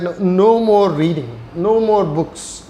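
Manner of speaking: lightly voiced mother laying down the rule; mother's firm order. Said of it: "She said".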